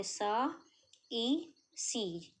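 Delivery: very slow, each sound drawn out; drawn-out sounding out for students; sounding out slowly. Shown as a demonstration. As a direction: stretch every vowel while writing. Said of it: "hand to hand पढ़ना है".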